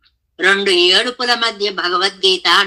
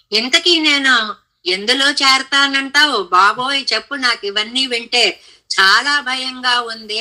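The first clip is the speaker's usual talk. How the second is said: fearful plea; 4 semitones higher than usual. Retold or imitated. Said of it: "ఒక దుఃఖ హేతువు".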